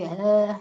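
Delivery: low deflated "uh"; slumped groan. Shown as a demonstration. Instructor demos slumped low-energy groan. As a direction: let a tired groan sag out. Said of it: "If you're like".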